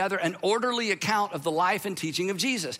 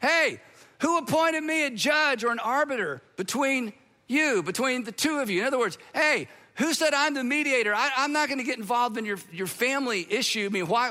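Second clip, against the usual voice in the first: mock yelled reply; 4 semitones higher than usual. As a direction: call it back over the crowd, pushing away. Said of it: "stopped, and yelled back".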